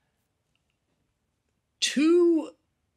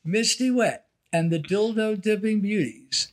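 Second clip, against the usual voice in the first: carnival barker; 2 semitones lower than usual. Retold or imitated. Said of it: "Cat's level of promotion".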